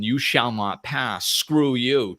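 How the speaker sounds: mock stubborn rock, slow and dug in; forceful defiance. Rock in a river blocking the water, mock defiant. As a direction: plant your feet and refuse to budge. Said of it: "all forceful and going".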